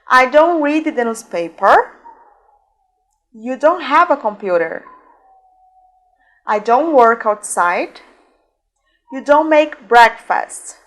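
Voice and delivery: slow, spaced-out example sentences for learners; measured teacher's drill, word by word; slow model reading. Shown as a demonstration. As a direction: say each sentence slowly for repeating. Model sentences for repeat after me.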